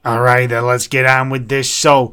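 put-on New York accent. Adviser pressing on with loan business, New York accent. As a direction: switch into a New Yorker's accent. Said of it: "he's gone from, like, New York".

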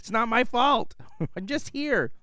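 shouting at neighbor. Retold or imitated. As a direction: yell back half laughing. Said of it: "I'm like".

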